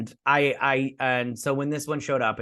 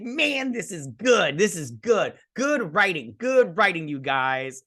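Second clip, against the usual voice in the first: thrilled praise; 5 semitones higher than usual. Retold or imitated. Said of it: "I was like".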